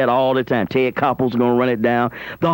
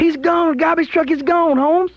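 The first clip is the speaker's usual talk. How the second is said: gleeful high exclaim; 13 semitones higher than usual. Real, not acted. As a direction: crow it out with glee.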